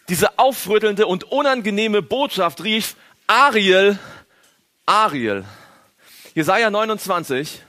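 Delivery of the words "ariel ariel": calling out. Acted. Prophet crying out in service.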